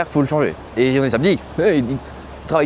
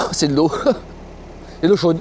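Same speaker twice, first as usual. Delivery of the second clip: real laughing; 6 semitones higher than usual. Real, not acted. Driver tasting awful watery German coffee, laughing in disbelief.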